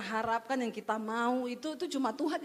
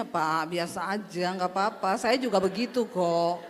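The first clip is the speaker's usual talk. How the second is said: lower, offhand wife's reply; unbothered wife; 7 semitones lower than usual. Pretend. Wife coolly telling her husband it's fine, lower and offhand. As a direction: shrug it off lightly to the husband.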